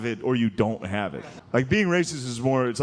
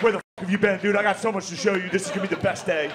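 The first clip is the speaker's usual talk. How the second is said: eager excited; 5 semitones higher, faster than usual. Retold or imitated. Dog greeting owner as kid.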